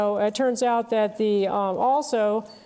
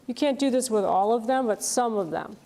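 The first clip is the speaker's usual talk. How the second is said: contrastive emphasis on "all", then on "some"; stress on some. Real, not acted. Teacher cautioning students it only works for some, stressing "some". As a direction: set "some" apart from "all" with clear stress. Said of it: "I'm gonna emphasize the word some".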